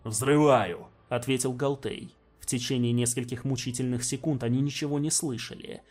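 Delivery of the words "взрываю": громко. Acted. Ответ в бою.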